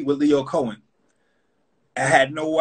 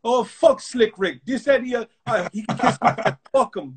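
a light imitation of Leo's accent, a bit higher; 7 semitones higher than usual. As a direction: mimic the label man's accent, loosely. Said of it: "like, in his accent".

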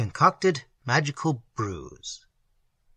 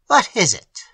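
croaked, raised and a bit louder; croaking; 5 semitones higher, 6 dB louder than usual. A narrator's reading. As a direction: croak it like a grim old man. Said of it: "the old man croaked".

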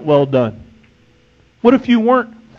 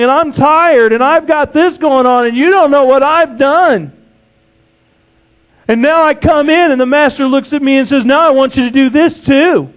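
mock whine; 4 semitones higher than usual. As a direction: whine like a tired servant protesting. Congregant's complaint acted out as whine.

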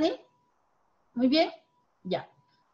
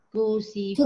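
Crucifijo with the stress landing on fi; 3 semitones lower than usual. Shown as a demonstration. Teacher showing where crucifijo is stressed, stress on fi. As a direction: lean on the syllable fi in Crucifijo. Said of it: "la sílaba tónica está en fi".

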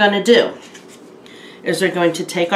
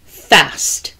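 animated, louder storybook reading; children's story narration; 4 dB louder than usual. A narrator's reading. Storyteller reading a penguin tale to children, animated narration. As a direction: read it out expressively for young listeners. Reads a picture book aloud.

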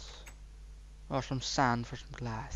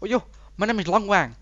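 silly put-on voice; 7 semitones higher, 7 dB louder, faster than usual. Joke silly voice.

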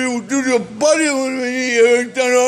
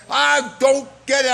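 screaming. Real, not acted. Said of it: "I'm fucking screaming".

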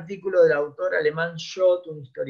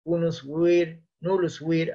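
slow Latin maxim; 2 semitones higher, slower than usual. Shown as a demonstration. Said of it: "pronunciamientos en latín".

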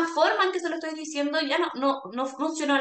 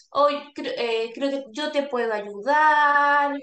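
positive reassuring; 3 dB louder, slower than usual. Shown as a demonstration. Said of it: "Hablar en positivo, como".

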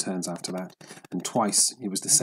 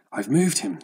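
a quick, louder burst of triumph; exclaiming; 5 dB louder than usual. Acted. Old fisherman to himself, first gain on the fish: louder exclaim. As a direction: let it out as the fish finally gives. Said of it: "the old man exclaimed".

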